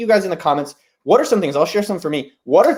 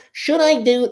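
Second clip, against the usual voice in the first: mock Jewish accent; 7 semitones higher, slower than usual. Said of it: "I'm gonna do it in a Jewy voice".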